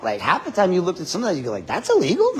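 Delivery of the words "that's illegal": high-pitched, amused disbelief; mock incredulity. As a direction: ask it as if you can't believe it, laughing. Acted reaction to petty offence.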